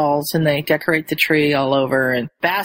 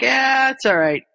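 casual reassurance; 7 semitones higher than usual. Retold or imitated. Friends forgive Scorpius, higher casual reassurance. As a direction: wave it away, pitched up.

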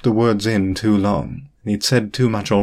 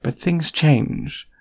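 gentle; 6 semitones higher, much slower than usual. A narrator's reading. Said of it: "she said gently".

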